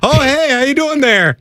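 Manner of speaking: a high mock Scottish impression, overdone; imitating Scottish accent. Cohost mocks the bad Scottish impression, in a high mock Scottish accent. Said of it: "what are you in Maine now?".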